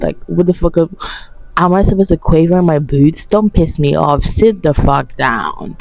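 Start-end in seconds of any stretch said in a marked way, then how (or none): 3.2-5.8 a stern, unhurried threat; slow stern warning. Real, not acted. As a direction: lay down the law, slowly. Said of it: "telling off".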